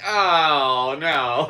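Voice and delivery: high, loud laughing oh no; laughing dismay. Retold or imitated. Hearing the cops will call Metro, laughing dismay. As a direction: laugh out the dread.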